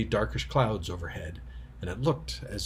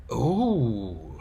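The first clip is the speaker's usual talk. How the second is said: sudden oh; 3 dB louder than usual. Acted. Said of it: "said Susan suddenly".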